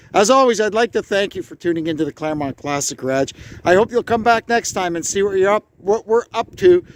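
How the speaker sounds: stiff cold lips; talking through a numb frozen face. Real, not acted. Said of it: "Sorry, my face is frozen".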